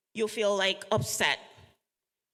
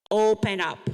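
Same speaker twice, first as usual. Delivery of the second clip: louder, rallying "Open up"; loud call and response; 7 dB louder than usual. Shown as a demonstration. Speaker leads the audience in chanting, loudly. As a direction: belt "Open up" out together with the room. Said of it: "Say it with me".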